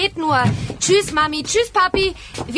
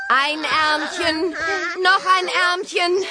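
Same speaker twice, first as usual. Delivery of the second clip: slow, drawn-out sing-song; patient baby talk; sing-song coaxing; slower than usual. Acted. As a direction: coax the arms into the sleeves. Dressing second baby.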